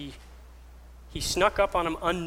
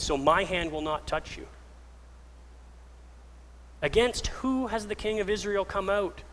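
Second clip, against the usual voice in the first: higher-pitched, impassioned declamation; calling out; 4 semitones higher than usual. Retold or imitated. David appealing to Saul for judgement, calling out. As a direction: make your case to a king, voice lifted. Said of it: "and calls out".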